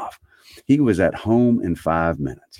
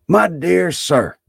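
high, slow, hearty greeting; effusive Scrooge hailing a gentleman; 12 semitones higher, 4 dB louder, slower than usual. A narrator's reading. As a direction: draw it out, delighted to meet him. Scrooge hails the old gentleman.

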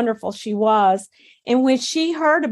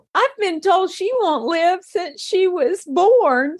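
laughing; 6 semitones higher than usual. Retold or imitated. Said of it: "I had to start laughing".

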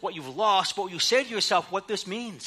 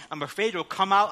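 normal talking voice

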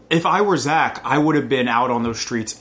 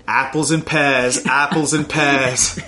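attempted Cockney. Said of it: "oh, wait, governor".

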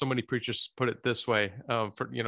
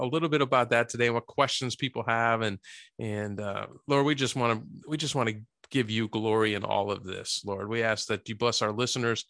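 prayer; 2 semitones lower than usual. Real, not acted. Host prays to the Heavenly Father before the show, prayerful.

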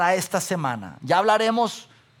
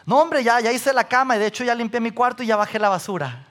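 fast, eager rundown of chores; eager son; 3 semitones higher, faster than usual. Retold or imitated. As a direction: rattle off the chores proudly. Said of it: "Y yo siempre".

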